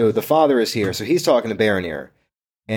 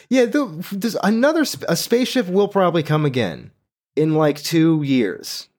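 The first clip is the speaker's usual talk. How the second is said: mock high voice of the dude; 5 semitones higher than usual. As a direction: squeak it out like a guy being helpful. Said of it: "so the dude's like".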